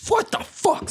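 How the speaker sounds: very high-pitched incredulous cry; exasperated disbelief. Retold or imitated. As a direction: react to plans suddenly cancelled. Retold reaction to cancelled plans.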